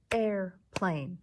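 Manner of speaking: "Airplane" in two separate beats, Air-plane; clapped-out syllables. Shown as a demonstration. Teacher clapping airplane for the class, "Airplane" syllable by syllable. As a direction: split "Airplane" with a short gap between syllables. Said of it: "clap and count the syllables in each word".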